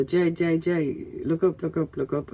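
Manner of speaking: hushed urgent call downstairs. Retold or imitated. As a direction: call up to him to catch his eye. Calling up to neighbour below.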